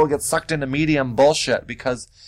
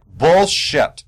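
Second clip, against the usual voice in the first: scoffing call-out; 5 semitones higher, 5 dB louder than usual. Retold or imitated. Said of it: "I am just like".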